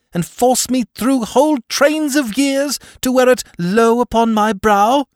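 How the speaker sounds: high, loud, rising ghostly fury; angry ghost. Acted. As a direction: thunder at him like an offended spirit. Offended ghost rebukes Scrooge.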